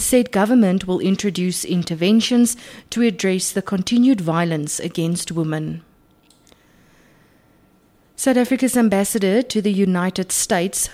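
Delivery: measured radio news delivery; news read. Acted. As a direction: read it like a bulletin. Reads the news bulletin.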